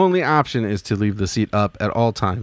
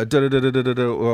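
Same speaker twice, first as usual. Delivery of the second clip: rapid even run of "da"; mock number-generator noise. Host playing the number guy before picking, rattling mechanical syllables. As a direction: rattle it off like a machine counting.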